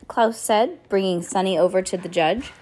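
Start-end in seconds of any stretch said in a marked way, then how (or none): none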